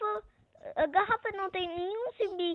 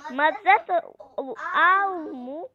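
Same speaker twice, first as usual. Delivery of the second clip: laughing; slower than usual. Real, not acted.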